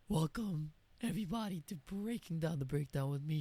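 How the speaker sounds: lost voice, hoarse and rough. Real, not acted. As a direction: talk through a hoarse throat. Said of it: "now I sound like this".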